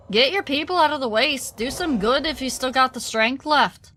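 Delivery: a hint of an Irish lilt for the dwarf; light Irish accent. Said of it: "a little bit of an Irish accent".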